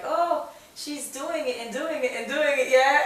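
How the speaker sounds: a light mock of the doubters who now cheer; mock gossip. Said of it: "they're like".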